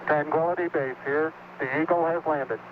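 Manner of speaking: space radio beeps. Real, not acted. Apollo radio transmission from moon.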